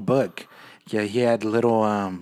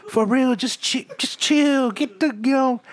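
calming a ghost; 10 semitones higher, 4 dB louder than usual. Pretend. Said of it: "I'd be like".

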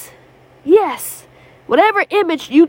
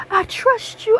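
higher, rising; 7 semitones higher, slower than usual. Shown as a demonstration. Repeating the prayer aloud.

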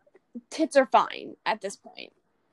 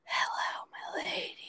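quoted movie line; 11 dB quieter, slower than usual. Retold or imitated. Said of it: "I just hear".

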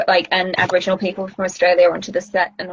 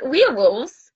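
"Werewolves" in a bad, half-hearted Kiwi accent; attempted Kiwi accent; 4 semitones higher, slower than usual. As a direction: try a Kiwi "Werewolves" and fail. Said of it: "I can't do Kiwi accents".

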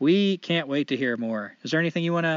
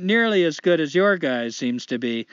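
put-on Canadian accent; 3 semitones higher than usual. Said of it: "I'm gonna try to do a light Canadian accent".

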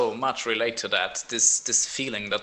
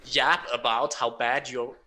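bitter retort. Retold or imitated. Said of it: "And I was like".

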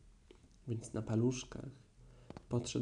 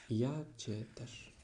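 tender; 3 dB quieter, much slower than usual. Acted. Pooh answers Christopher Robin fondly.

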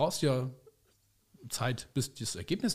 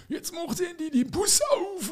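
hammed-up Viennese roar at the bus; Viennese shout; slower than usual. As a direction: bellow it like an angry Viennese passenger. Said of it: "Da brüllte der Erste so auf, auf Wienerisch".

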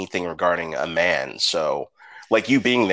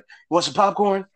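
mock dad voice; 10 semitones higher than usual. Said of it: "my brother would lean over and be like".

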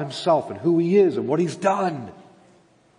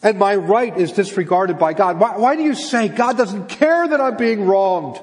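loud, raised-pitch incredulous questioning; impassioned challenge; 5 semitones higher, 4 dB louder than usual. Acted. Preacher voicing God confronting the exiles' complaint, impassioned. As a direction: push the questions out with rising exasperation.

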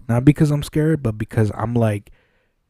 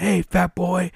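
higher mock "Hey, fat boy"; imitating the resident's taunt; 8 semitones higher, slower than usual. Resident calling after him in the corridor, lightly mocking. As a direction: lightly mimic a jeering patient. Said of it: "he's all like".

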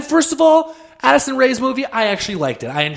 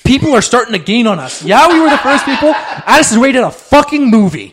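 gruff tough love; 3 semitones higher, 4 dB louder than usual. Pretend. Pushy parent, laughing.

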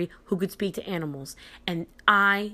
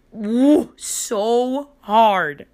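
louder and higher, reliving the smack; excited whoop; 4 semitones higher, 7 dB louder, much slower than usual. Acted. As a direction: whoop it out with glee. Smacking the bee hard.

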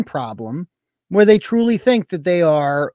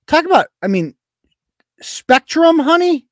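sassy whisper; 9 semitones higher, 4 dB louder than usual. Real, not acted. Sassy jab at sender.

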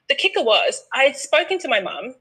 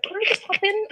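excited; 12 semitones higher than usual. Retold or imitated. Retold excited self-talk.

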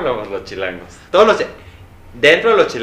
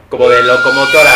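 steam whistle imitation; 10 dB louder than usual. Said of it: "así como de vapor".

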